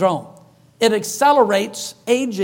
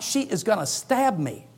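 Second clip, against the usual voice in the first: hushed fearful thought; 6 dB quieter than usual. Retold or imitated. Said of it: "That was the thought in my mind".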